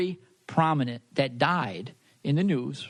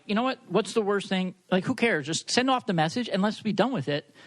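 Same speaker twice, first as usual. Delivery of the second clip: raised, insistent urging; pushy urging voice; 4 semitones higher than usual. Retold or imitated. Friend urging the medium to send the message, pitched up and insistent. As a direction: push her to just send it, pitched up. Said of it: "I can't believe I'm talking like this".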